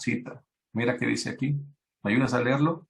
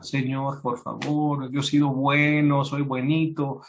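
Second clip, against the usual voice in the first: higher, pleading mock whine; mock crying plea; 4 semitones higher than usual. King Hezekiah weeps to God for more time, mock pleading. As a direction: beg like a spoiled child. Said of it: "Ezequías llora".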